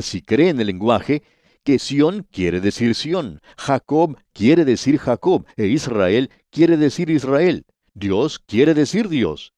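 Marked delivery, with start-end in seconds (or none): 1.6-9.5 slow insistence. Acted. Preacher insisting on literal meaning.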